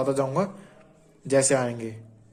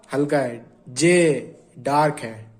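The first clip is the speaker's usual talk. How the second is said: slow revision; 2 semitones lower, much slower than usual. Shown as a demonstration. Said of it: "revising light and dark".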